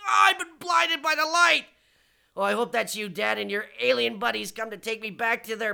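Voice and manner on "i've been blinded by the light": high, loud dramatic cry. Acted. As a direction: wail it like you're blinded. Blinding flash, crying out.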